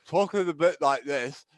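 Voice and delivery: lightly imitated boxer's impeded speech; a hint of a speech-impediment impression; Chris Eubank. Shown as a demonstration. Host showing how wisdom teeth removal would sound, light impression. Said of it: "most people don't know who, um, Chris Eubank is".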